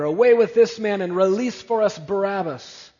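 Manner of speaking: crowd shout. Acted. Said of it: "they cried out all together".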